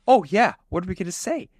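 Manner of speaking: hammed-up yokel sarcasm; sarcastic hick. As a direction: Tucker mocking what they'd tell the sheriff. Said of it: "And Tucker's like".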